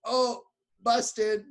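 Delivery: high, mock-caught oh busted; nervous busted. Woman caught touching Jesus, high mock nervous busted. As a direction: squeak like a kid caught red-handed. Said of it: "how nervous she was".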